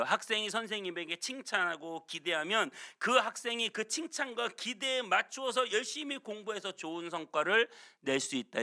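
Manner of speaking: ordinary talk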